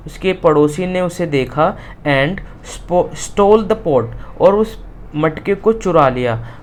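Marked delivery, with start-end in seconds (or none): 2.1-4.1 slow, word-by-word reading; slow reading aloud. Shown as a demonstration. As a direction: dictate it to the class. Teacher rereads textbook line. (धीरे-धीरे पढ़ना)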